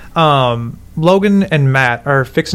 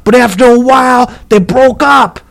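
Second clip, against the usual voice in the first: smoker's rasp; 8 semitones higher than usual. Retold or imitated. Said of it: "he talked just like that old-ass ninety-two-year-old man".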